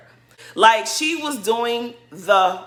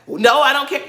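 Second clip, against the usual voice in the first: higher mock protest; upset retort; 5 semitones higher, 4 dB louder than usual. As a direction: imitate someone protesting while getting upset. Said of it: "she was getting so upset".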